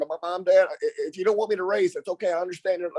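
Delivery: mock-timid, stuttering backing down; nervous stutter. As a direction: act out stumbling over a plea to parents. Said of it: "I'm stuttering".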